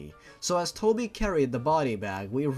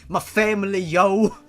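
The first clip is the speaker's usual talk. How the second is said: higher and louder, jokey shout; playful exclamation; 6 semitones higher, 8 dB louder than usual. Real, not acted. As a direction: hype it up like a joke. Jokey aside after reading.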